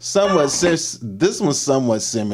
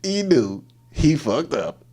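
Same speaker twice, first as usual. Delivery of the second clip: wheezing the words out between laughs; laughing through it; much slower than usual. Real, not acted. Reacting to the fall video, laughing through the words. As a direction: voice cracking with laughter.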